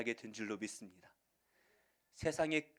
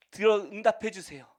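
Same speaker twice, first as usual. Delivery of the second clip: pleading prayer; 8 semitones higher, 11 dB louder than usual. Retold or imitated. Praying believer pleads.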